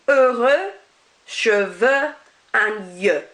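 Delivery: heureux, cheveux, yeux with a rounded eu ending; French eux sound. Shown as a demonstration. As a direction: model each eux word with no x. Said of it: "more of an E sound".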